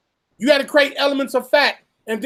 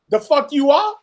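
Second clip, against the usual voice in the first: indignant, raised and higher; mock furious Congress; 3 semitones higher than usual. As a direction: play the offended boss. Congress voiced as furious boss.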